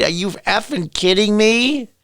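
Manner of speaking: can't believe what you heard; incredulous. Real, not acted. Vlogger reacting to the news, slow incredulous disbelief.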